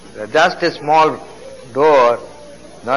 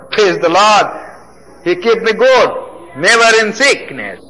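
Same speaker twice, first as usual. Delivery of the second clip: joyful praise; 4 semitones higher than usual. Acted. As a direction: proclaim it with joy.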